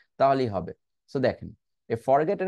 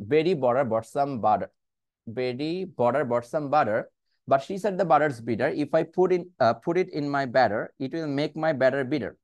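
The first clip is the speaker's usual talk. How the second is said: slow practice reading; much slower than usual. Shown as a demonstration. Teacher demonstrating the tongue twister for students, slow practice reading. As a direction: slowly model each phrase of the twister. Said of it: "আমি slowly আগে পড়ছি".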